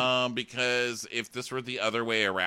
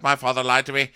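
louder, milder mock complaint; brief hammed-up grievance, only slightly raised in pitch; mock crying; 5 semitones higher, 8 dB louder than usual. The speaker repeating his grievance to Sam, mildly mock crying. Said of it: "stop your crying".

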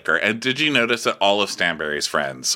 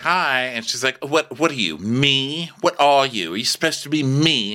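imitating Caroline; 5 semitones higher than usual.

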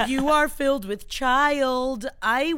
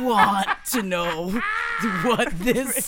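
mouth propped open. Pretend. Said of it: "call me Regina Gums".

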